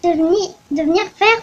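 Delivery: put-on old lady scolding a tourist who startled her; indignant old lady. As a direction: scold like a frail old granny. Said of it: "une vieille dame délicate".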